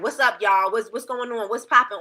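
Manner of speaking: loose, casual hey-y'all greeting; easygoing slangy hello; own casual style. Shown as a demonstration. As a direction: greet your crew like you always do. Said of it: "Y'all know I'm gonna sound like this".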